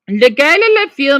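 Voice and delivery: teacher sounding out "le gars et la fille" in French; French demo. Shown as a demonstration. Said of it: "means boys and girls".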